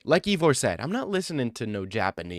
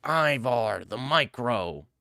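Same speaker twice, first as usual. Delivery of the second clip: slow, drawn-out mock-epic title; mock grand name; much slower than usual. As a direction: draw the name out like a hammed-up title. Hams up the commenter's name.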